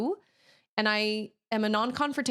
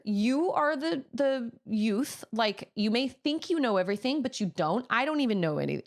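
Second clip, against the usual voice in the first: retold mild telling-off; 4 semitones higher than usual. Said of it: "I was just mad 'cause I was like".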